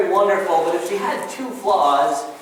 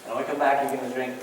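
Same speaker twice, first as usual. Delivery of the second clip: low, soft, mildly reassuring husband; understated calm-down voice, softer and lower; soothing husband; 4 semitones lower, 6 dB quieter than usual. Retold or imitated. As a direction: gently settle an upset wife, lightly acted. Husband soothing his upset wife.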